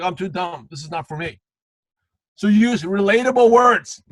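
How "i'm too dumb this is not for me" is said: soft, dropping mock self-doubt; discouraged prospect. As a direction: voice a put-off prospect, sinking away. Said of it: "the prospect feels like".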